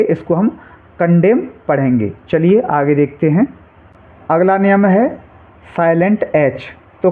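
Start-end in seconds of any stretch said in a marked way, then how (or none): 1.0-1.4 कंडेम ending on m, no n after it; silent N. Shown as a demonstration. Teacher showing students how to read condemn, कंडेम without final n. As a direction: say कंडेम, closing on the m. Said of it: "तो एन को silent रखेंगे".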